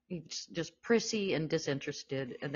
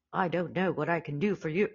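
attempted Cary Grant; 2 semitones higher than usual. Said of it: "I cannot do it".

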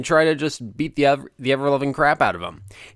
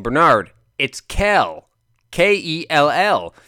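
spelling it out; 2 semitones higher, slower than usual. Retold or imitated. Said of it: "I expected Jim Lampley at one point to just".

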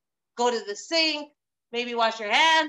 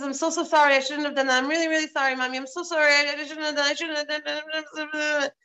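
mock crying child. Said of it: "he cries".

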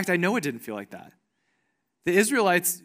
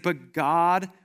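reassuring; 3 semitones lower, much slower than usual. Retold or imitated. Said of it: "He's like".

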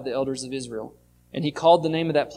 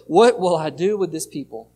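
louder, pleading cry for help; crying out worried; 6 dB louder than usual. Retold or imitated. Moses crying out to God, loud and worried. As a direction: call out to God in alarm. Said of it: "Moses cries out to God".

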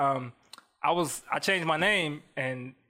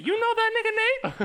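high, put-on white girl voice, laughing; 3 dB louder than usual. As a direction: chirp it like a white party girl. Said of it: "Sound like an old lady".

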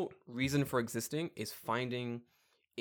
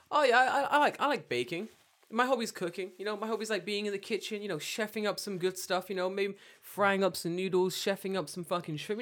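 mock weeb voice; 6 semitones higher than usual. Mocking a weeb's small talk.

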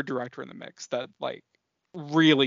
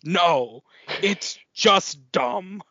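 louder, drawn-out mock Southern outburst; attempted Southern accent; 4 semitones higher, 5 dB louder, much slower than usual. Detective contradicting her praise, emphatic imitated Southern accent. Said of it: "I'm gonna try my best to do, like, the accent".

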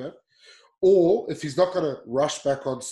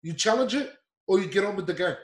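exasperated scolding, pitched up; insistent, fed-up lecture; frustrated; 4 semitones higher than usual. Real, not acted. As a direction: lay down the rules in frustration. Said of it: "that's why it's frustrating".

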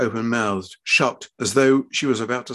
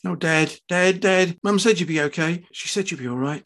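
emotional daughter; 6 semitones higher than usual. A narrator's reading. Daughter moved by father's acceptance.

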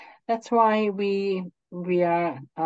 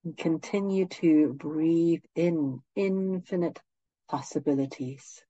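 guided meditation; 4 dB quieter than usual. Acted. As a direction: ease them gently into stillness.

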